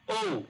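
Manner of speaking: "ও" sung out high and long; teacher stretches the vowel for the class; long o demo. Shown as a demonstration. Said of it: "আর এটা বললাম".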